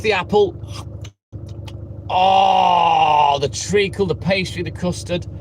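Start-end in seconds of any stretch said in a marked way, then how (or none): 2.1-5.3 ecstatic. Acted. Customer ecstatic tasting treacle tart.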